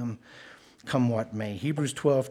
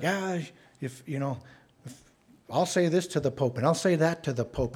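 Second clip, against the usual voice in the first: higher, brash boasting; mock cocky bravado, higher; 4 semitones higher than usual. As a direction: swagger like you'll tell the Pope off.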